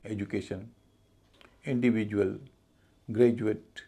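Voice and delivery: ज sound in एजुकेशन, इंडिविजुअल, ग्रेजुएट. Shown as a demonstration. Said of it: "ज का उच्चारण होता है".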